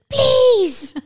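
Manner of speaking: very high, loud mock shriek; imitating a screaming child. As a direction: scream it like a toddler at the end of his rope. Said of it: "he had almost lost his voice from screaming".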